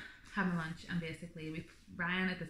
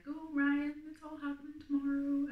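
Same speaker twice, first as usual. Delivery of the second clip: high, far-from-usual gushing mum voice; excited mum; 9 semitones higher, slower than usual. Retold or imitated. Mum arrives telling the husband it's tomorrow, excited.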